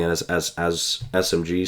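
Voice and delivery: repeating the word, tripping over it; stuttering. Real, not acted. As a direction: stumble on the start of the phrase. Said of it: "I don't know why I'm stuttering".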